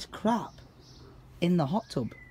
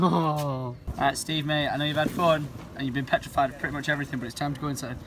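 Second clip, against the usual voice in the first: gentle coaxing; 4 semitones lower, 3 dB quieter, faster than usual. Real, not acted. Soothing pet before going in.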